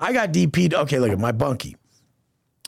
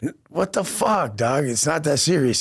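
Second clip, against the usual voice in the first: incredulous protest; 3 semitones higher than usual. Retold or imitated. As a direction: stretch it out like you can't believe it. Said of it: "And I'm like".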